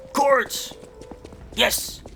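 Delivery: gasping with delight; thrilled cheer; excited gasp. Real, not acted. Finds rare item.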